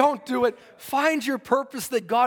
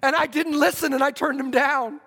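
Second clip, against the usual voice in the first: anguished cry; 5 semitones higher than usual. Retold or imitated. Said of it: "He screamed and he cried".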